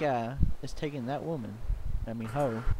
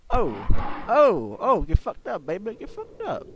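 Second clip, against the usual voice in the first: taunting squeal; 6 semitones higher, slower than usual. Acted. Taunting in fight.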